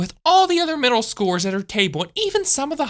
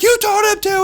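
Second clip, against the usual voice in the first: high, loud snap back; teacher's retort; 14 semitones higher, 4 dB louder than usual. Retold or imitated. Teacher answers Drew's protest, high loud retort. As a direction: shut down his excuse.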